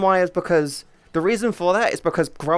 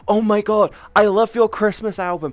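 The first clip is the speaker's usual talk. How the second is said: higher and louder, mock fan gushing; 3 semitones higher, 4 dB louder than usual. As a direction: gush like an imagined fan. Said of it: "You guys will be like".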